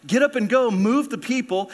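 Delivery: God's command. Acted. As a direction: urge Joshua on, punching each "get up and go". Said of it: "here's the Lord saying".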